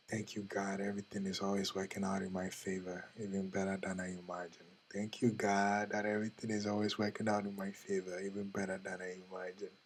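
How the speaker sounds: low, soft, even recitation of thanks; murmured affirmation. Acted. Speaker recites thanks to God as an example, murmured affirmation. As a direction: say it softly and evenly, like a private prayer.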